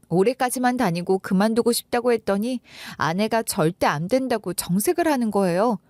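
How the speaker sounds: plain reading voice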